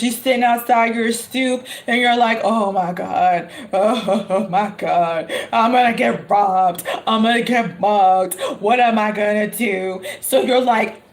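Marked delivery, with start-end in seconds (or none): 2.4-10.0 lower, slow panicked oh my God with a laugh; hammed-up fear of getting mugged; imitating panic out in the cold; mock panic.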